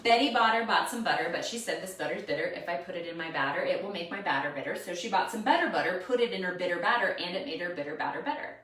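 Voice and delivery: put-on quick tongue twister for kids; tongue twister recital. Shown as a demonstration. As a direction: rattle it off like teaching kids. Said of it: "That's the one that I do with the kids".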